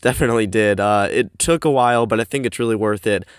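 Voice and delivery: recorded in a cramped closet; boxy, echoey room sound; echoey closet recording. Real, not acted. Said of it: "sorry if it's a little bit echoey".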